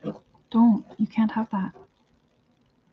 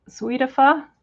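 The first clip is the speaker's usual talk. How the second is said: imitating the parrot; 3 semitones higher, slower than usual. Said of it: "Is he saying".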